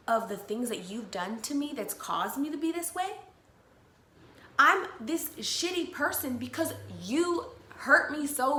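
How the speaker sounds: irritated. Retold or imitated. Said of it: "I was getting really fucking irritated".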